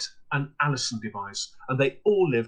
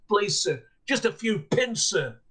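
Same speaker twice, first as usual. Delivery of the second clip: higher, begging little voice; pleading girl; 7 semitones higher than usual. Acted. Young girl begging the peddler, pleading. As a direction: plead for a few pins.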